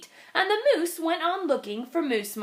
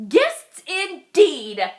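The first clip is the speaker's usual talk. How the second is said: scornful friends; 4 semitones higher, 5 dB louder, much slower than usual. Acted. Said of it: "his friends answered".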